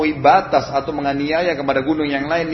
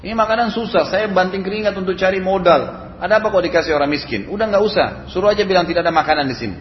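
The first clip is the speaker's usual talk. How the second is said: higher-pitched, indignant retold scolding; mock angry husband; 5 semitones higher than usual. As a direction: act out an annoyed husband, pitched up. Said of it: "Suaminya tiba-tiba marah". (suami marah yang ditirukan, nada meninggi)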